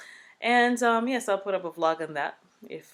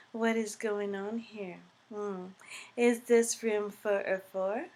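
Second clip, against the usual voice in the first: highty-tighty nurse; 4 semitones higher than usual. Retold or imitated. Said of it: "she came in high tighty".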